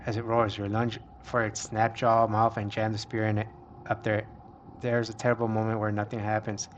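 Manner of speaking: steady reading of an adventure tale; story narration. A narrator's reading. Player reading a monster fight aloud, story narration. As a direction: narrate the action evenly.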